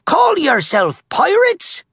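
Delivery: high, indignant pirate holler; thundering. A narrator's reading. Captain Red scolding his crew, thundering. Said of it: "Red thundered".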